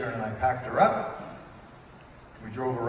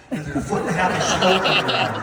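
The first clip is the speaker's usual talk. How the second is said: mock Canadian accent; 4 semitones higher, 6 dB louder, faster than usual. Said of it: "It's a Canadian system, right?".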